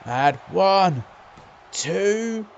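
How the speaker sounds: building to a high, loud three; excited pin count. Real, not acted.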